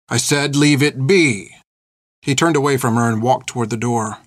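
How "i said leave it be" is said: slow, drawn-out warning; stern order repeated. Acted. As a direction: draw out the order slowly, firmly. Repeats his order, warning her.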